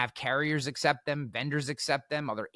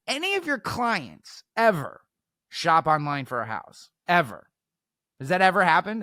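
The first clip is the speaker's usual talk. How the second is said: pointed challenge; 3 semitones higher, 4 dB louder than usual. Retold or imitated. Speaker cornering heckler about clients' online shopping, pointed challenge. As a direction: press the point as in a cross-examination.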